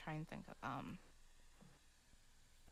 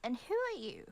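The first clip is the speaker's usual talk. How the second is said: whispering; 6 semitones higher, 5 dB louder than usual. Acted. Whispered character line.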